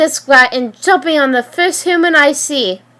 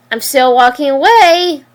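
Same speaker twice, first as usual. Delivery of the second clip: sing-song. Acted. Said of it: "yelled back in, in a sing-song voice".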